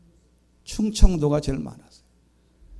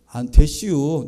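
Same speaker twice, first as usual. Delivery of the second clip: Chungcheong dialect; 4 semitones lower than usual. Retold or imitated. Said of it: "충청도 사람들이".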